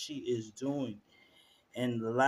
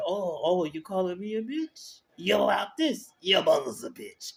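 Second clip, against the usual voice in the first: put-on higher, sassy New York accent comeback; Natalia impression; 6 semitones higher, 4 dB louder than usual. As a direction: fire back in a New York accent, voice up high. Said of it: "'cause I can't do it right".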